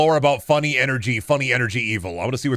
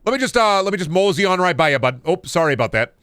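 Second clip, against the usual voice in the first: higher-pitched, apologetic Midwesterner; Midwestern Doom Guy; 6 semitones higher than usual. Acted. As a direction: squeeze past like an overly polite Midwesterner. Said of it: "Midwestern Doom Guy be in the middle of".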